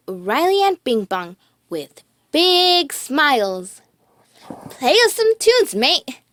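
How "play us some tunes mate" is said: koala. A narrator's reading. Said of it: "said a koala".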